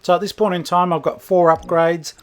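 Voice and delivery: talking around a mouthful of ice; mouth full. Real, not acted. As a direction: ice stuck in the mouth, words muffled. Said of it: "Sorry, I got stuck with ice in my mouth".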